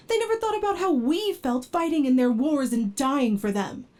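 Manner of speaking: exasperated, rising anger, not shouting; lost temper. Acted. Android scolds partner for claiming to be human, angry. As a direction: snap back, offended and hurt. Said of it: "I lost my temper again".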